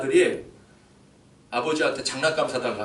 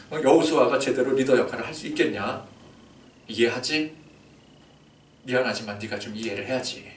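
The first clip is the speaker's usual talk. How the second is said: gentle God. Acted. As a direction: break the bad news to Moses gently. God quietly breaks the news.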